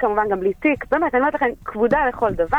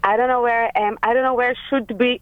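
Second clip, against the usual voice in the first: lost pleading; 4 semitones higher, much slower than usual. Retold or imitated. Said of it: "אני אומרת לה".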